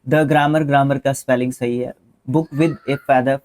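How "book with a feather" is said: teacher reading a sentence slowly. Shown as a demonstration. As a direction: read each word slowly and deliberately. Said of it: "reading the sentence slowly".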